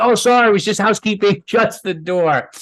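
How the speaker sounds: mock innocent housekeeping excuse; pretend housekeeper. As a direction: bluff like staff who walked in by mistake. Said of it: "he pretends he works there".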